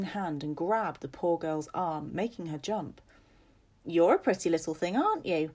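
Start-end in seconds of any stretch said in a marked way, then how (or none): 3.8-5.5 put-on louder old lady, pitch swooping up at the end; leering, over-sweet old mistress; creepy old lady. Lady Agnes peering at Maisie, creepy old lady.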